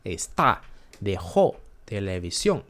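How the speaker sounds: Está, dejó, televisión each stressed on the last syllable; word list punching the endings "TÁ", "JÓ", "SIÓN"; accented endings. Shown as a demonstration. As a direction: land on the final vowel of Está and dejó. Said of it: "that accent in, in O".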